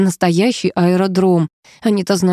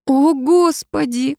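puffing; 8 semitones higher, much slower than usual. Acted. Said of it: "пропыхтела она".

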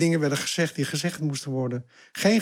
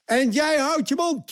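retold shout; 11 semitones higher than usual. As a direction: bark it at him to shut up. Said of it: "schreeuwde die naar mij".

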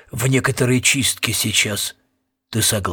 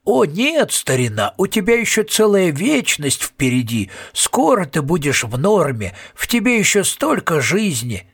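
mock reassurance; 5 semitones higher than usual. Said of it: "забормотали бы нечто вроде".

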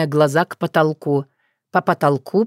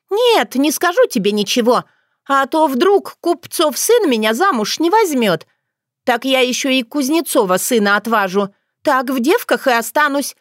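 put-on high, plaintive girlish complaint; fretful village girl; 6 semitones higher than usual. Dunya fearing she will stay unmarried, high and plaintive. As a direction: lament in a high, whiny voice. Voices Dunya, fretting client.

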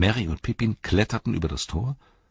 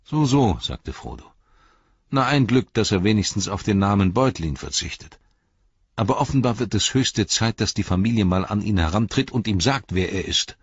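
sardonic retort; 4 semitones higher, 4 dB louder than usual. Acted. Frodo indignant.

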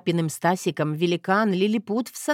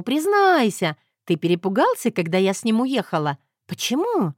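teasing Zoya. Acted. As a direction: needle him to confess.

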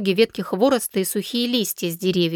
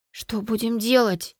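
slow, lightly frightened question; ask, scared of the beasts; still trembling. A narrator's reading. Girl asks cousin how to escape, trembling. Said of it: "всё ещё дрожа спросила я".

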